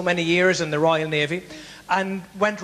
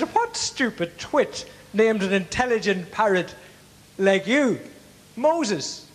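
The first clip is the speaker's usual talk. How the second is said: scoffing burglar; 2 semitones higher, slower than usual. Acted.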